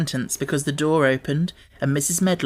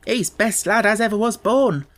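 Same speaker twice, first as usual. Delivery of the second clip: Martha's Yorkshire voice; 7 semitones higher, 3 dB louder than usual. A narrator's reading. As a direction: voice the country maid gently.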